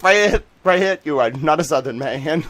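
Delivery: put-on loud, high Southern-accented scolding; mock Southern accusation. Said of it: "Petty's like".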